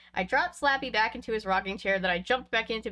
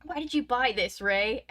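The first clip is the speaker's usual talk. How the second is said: mild anger; 3 semitones higher than usual. Acted. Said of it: "he asked angrily".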